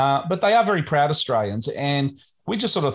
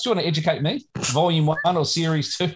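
amused, higher teasing question; teasing, laughing; 4 semitones higher than usual. Real, not acted. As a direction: tease your co-host through a laugh. Teasing co-host about newsletter.

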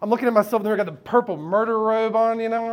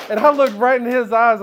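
louder, higher, driving to the punchline; loud punch; 6 semitones higher, 10 dB louder than usual. Real, not acted. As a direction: push it out like a punchline. Courtroom punchline build-up.

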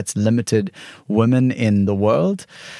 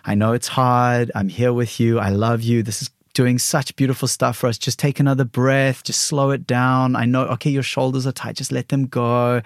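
gentle, soothing self-talk; reassuring parent voice. Retold or imitated. Loving inner parent soothing herself through the ice bath. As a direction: comfort yourself like a loving parent. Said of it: "So I have to be like".

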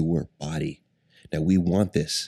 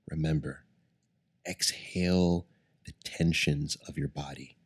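guided meditation. Acted. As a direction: ease them into calm breathing. Leads a guided breathing meditation.

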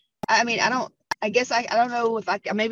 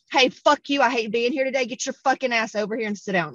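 hostile energy. Acted. Brusque worker ordering a patient over, mock-hostile. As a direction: imitate someone curt who hates being at work. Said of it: "it's almost the energy of".

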